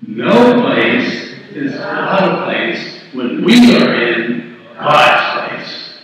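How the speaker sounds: very slow, emphatic phrase by phrase; leading in unison. Shown as a demonstration. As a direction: lead the congregation through it word by word. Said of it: "Let's say that together".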